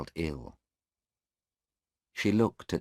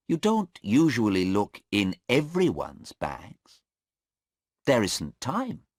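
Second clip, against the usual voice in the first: lightly voiced lawyer, higher and a touch louder; lawyer pressing; 6 semitones higher, 4 dB louder than usual. Mister Cheng pressing the policeman about the bags, insistent. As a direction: push the witness for answers.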